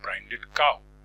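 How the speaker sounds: slow, drawn-out poem reading; slow measured reading of English verse; poem recitation. Acted. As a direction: savour each line as you recite. Recites the poem's next line.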